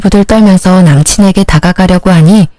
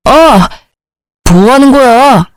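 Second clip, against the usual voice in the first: pained outcry; 5 semitones higher, slower than usual. Acted. Slapped boyfriend yelps at his girlfriend, shocked pained outcry. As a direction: cry out as if just hit in the face.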